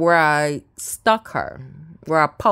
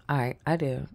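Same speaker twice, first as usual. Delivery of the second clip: breathy whisper, almost no voice; whispered confession; 3 semitones lower, 8 dB quieter than usual. Real, not acted. Confessing to the audience, in a whisper. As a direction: sneak the admission out in a whisper.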